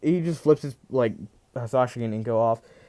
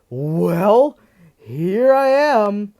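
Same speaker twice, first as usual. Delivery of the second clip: much louder, higher, slow gloating announcement; menacing villain; 8 semitones higher, 9 dB louder, much slower than usual. Retold or imitated. Deku in Zero form, loud slow villainous gloat. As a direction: proclaim it like a villain unleashed. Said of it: "he says".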